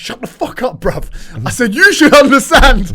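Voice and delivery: high, loud retold outburst; mock angry outburst; retold snap. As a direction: snap back at the friend.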